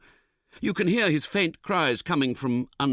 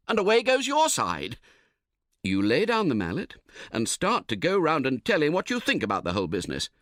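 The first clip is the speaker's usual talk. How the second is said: ordinary delivery, nothing marked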